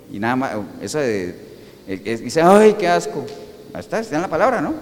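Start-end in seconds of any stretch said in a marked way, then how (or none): 2.4-3.2 drawn-out groan of disgust. Acted. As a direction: recoil on a long "ay". Voces de asco ante los tibios. (con asco)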